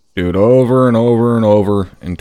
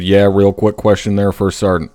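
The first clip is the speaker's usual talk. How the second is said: mocking imitation. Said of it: "I don't have anyone in this unit named".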